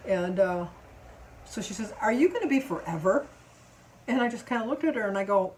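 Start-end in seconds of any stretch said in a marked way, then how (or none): 2.0-3.3 impatient, slightly louder rude question; rude customer. Retold or imitated. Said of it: "but she was rude".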